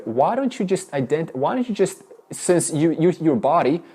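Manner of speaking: ordinary talk, nothing marked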